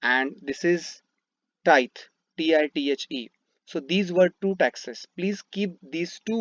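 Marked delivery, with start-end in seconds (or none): 1.6-1.9 "tithe" said as "tait"; "tithe" set apart as one syllable, like "tight"; pronunciation shown. Shown as a demonstration. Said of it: "I pronounce it like". 2.4-3.3 spelling out. Shown as a demonstration. Teacher spells out the term.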